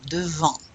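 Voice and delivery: "Devant" with dropped chin, nasal ending; modelled "Devant", N and T silent; nasal vowel. Shown as a demonstration. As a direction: let the last vowel of "Devant" open through the nose. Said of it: "drop your chin to get that nasal".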